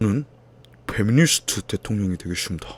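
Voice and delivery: whispered, hushed, put-on presidential politician speech voice. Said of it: "비슷한가?".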